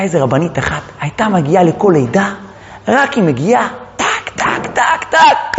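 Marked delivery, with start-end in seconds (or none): 4.0-5.6 percussive imitated taps; rapid tak-tak sound. Rabbanit arrives and baby pops out, percussive sound effect. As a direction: rattle off sharp little taks. Imitating quick magical birth.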